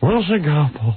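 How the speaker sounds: mock nervous, shaky voice. Retelling reading a line at an audition: imitating a nervous shaky voice. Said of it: "I was shaking in my pants, my voice is".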